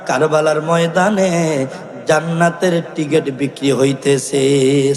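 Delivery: melodic chanted narration with drawn-out phrase endings; sing-song sermon storytelling. Real, not acted. Preacher tells of Abdul Wahab and his mother, half-chanted. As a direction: intone the tale like a village preacher.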